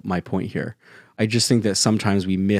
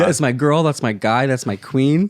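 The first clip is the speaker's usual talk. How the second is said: hype; 5 semitones higher, 3 dB louder than usual. Real, not acted. Hyping each other up.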